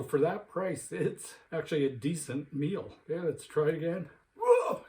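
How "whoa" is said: after eating wasabi. Real, not acted. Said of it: "the wasabi's making my eyes water even".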